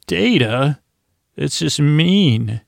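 drawn-out, lightly acted chiding; mildly hammed-up "how could you" reproach; mock reproach. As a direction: imitate someone gently scolding, stretching the words. Acted scolding of Data for rudeness.

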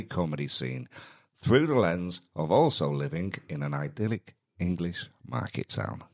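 announcer reading the show intro. Acted. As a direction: read it like a proud podcast opener. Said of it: "Very, very nicely done".

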